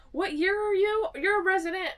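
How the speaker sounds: high, loud puzzled office manager; puzzled high question. Retold or imitated. Office manager mistaking the student for a resident, high puzzled. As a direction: ask it loud and high, baffled. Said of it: "she's like".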